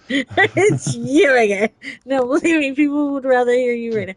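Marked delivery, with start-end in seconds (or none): 0.1-1.7 slow, drawn-out nemesis line; slow mock nemesis. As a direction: play the arch-enemy, dragging it. Mock villain line to Brad.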